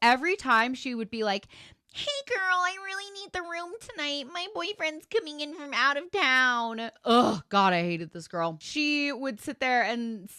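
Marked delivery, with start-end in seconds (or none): 2.0-6.9 "town" said shrill and stretched out. Retelling how a girl demanded their shared room: shrill little Gypsy Rose voice. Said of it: "in her shrilly little Gypsy Rose voice".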